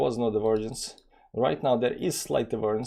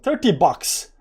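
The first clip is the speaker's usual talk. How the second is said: thirty bucks burst out high and loud; a quick, high, loud cheer at the profit; excited; 7 semitones higher, 7 dB louder, slower than usual. Real, not acted. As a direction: cheer the small win. Celebrating a small profit.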